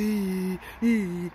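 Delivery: put-on "ee" crying; mock crying. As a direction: imitate someone bawling on a long vowel. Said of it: "dey cry say".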